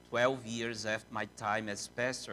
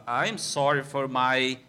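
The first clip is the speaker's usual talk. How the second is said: quoting Graham Peacock; 2 semitones higher, 5 dB louder than usual. Retold or imitated. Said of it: "he stood up and said".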